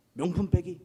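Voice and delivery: challenging question. Retold or imitated. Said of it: "제가 했던 얘기가 이거".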